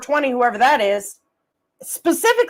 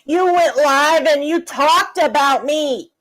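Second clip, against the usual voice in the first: slow, drawn-out mocking how dare you; lightly voiced sneering imitation of a rival; mocking whiny quote; slower than usual. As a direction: parody her indignation, stretched out. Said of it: "Nicolina's bitching to X Factor saying".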